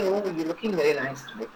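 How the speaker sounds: quick, light, pleasant compliment; friendly compliment. Shown as a demonstration. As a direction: pay a cheerful compliment.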